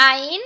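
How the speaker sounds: আইন drawn from a constricted mid-throat; squeezed-throat pronunciation. Shown as a demonstration. Teacher introduces mid-throat letters, tight-throated আইন. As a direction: press the throat at the start of আইন. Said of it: "এই দুইটাই গলা চেপে উচ্চারণ হবে".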